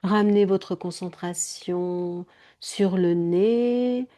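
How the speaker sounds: slow, stretched-out soothing delivery; gentle yoga nidra guidance; guided meditation. Acted. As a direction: draw out the vowels and ease them inward. Leads a meditation.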